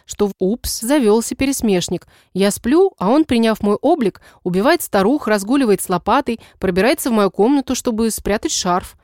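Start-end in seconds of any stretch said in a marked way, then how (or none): none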